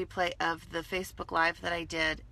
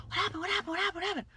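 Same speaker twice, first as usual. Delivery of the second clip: buzzing chatter; 10 semitones higher, much faster than usual. Retold or imitated. Coworkers buzzing over missing jar.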